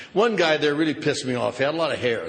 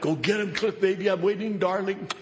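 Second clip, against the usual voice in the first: lightly voiced seductive vodka; a hint of a sultry lover calling; seductive bottle; 5 semitones higher than usual. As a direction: coo like a temptress bottle. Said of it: "it would just call to me".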